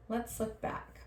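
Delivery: soft whispered aside. Real, not acted. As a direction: whisper the next step. Unvoiced aside.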